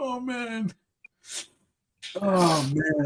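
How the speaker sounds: helpless laughter through speech. Reacting to something funny, laughing to tears while talking. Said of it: "I'm in tears right now".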